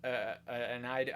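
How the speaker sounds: light American accent, imitating a streamer; hint of an American streamer voice; mock American accent. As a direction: slip into a casual American accent. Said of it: "I don't know why I'm American".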